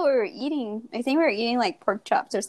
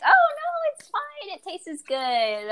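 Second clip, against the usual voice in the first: mock reassuring; 9 semitones higher, slower than usual. Supportive friends quoted.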